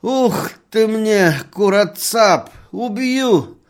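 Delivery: very loud, high, slow threatening shout; a drunk shaking his fist, raging; furious threat. Acted. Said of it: "громко тряс кулаком". (яростная угроза, очень громко и высоко)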